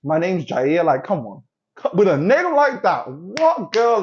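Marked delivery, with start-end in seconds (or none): 0.0-0.8 lightly voiced bad-boy intro, ending up; understated bad-boy charm. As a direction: say "My name's Jair" with a knowing lilt. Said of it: "it sounds like a bad boy".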